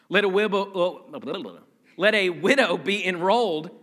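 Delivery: lips numb, words slurred slightly. Real, not acted. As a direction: talk through numb lips. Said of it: "My, my lips are numb".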